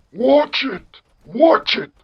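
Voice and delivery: put-on very high, loud warning in old-man falsetto; John Henry. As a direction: warn them off as a touchy cartoon old man. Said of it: "you have the generic old man voice".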